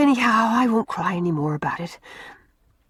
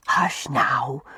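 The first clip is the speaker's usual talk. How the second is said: hushing whisper; 5 semitones lower than usual. A narrator's reading. Mary hushing the crying Una.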